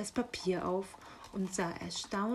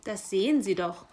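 strict, emphatic answer; stern raven. Acted. Raven answering the curious magpie, sternly. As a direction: put the magpie in her place. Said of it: "sagte der Rabe streng".

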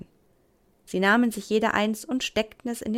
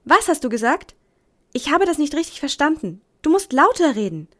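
calling loudly; 6 semitones higher, 7 dB louder than usual. Acted. Mother calling out.

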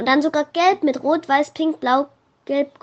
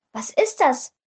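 panicked. A narrator's reading. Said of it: "fragte Tabea panisch".

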